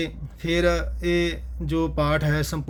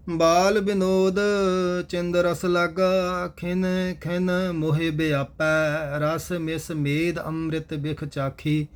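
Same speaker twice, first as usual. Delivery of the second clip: steady, measured chanted reading of scripture; gurbani recitation; slower than usual. Acted. Teacher recites verses for the class in steady recitation. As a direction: recite each line evenly and devoutly.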